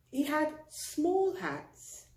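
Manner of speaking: high, slow and tiny; small voice for small hats. A narrator's reading. Reading to a child, small hats in a tiny high voice.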